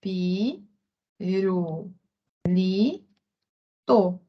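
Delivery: pi, ru, li, to each said apart with pauses; syllable by syllable. Shown as a demonstration. Teacher showing how the child says pirulito, syllable by syllable. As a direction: break the word into its syllables slowly. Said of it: "ela vai falar".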